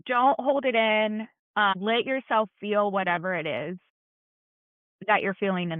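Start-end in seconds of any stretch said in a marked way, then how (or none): 0.1-1.3 slow, deliberate "Don't hold it in." with "Don't" stressed; firm encouragement. Shown as a demonstration. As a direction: press the point gently but firmly. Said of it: "urging a grieving woman".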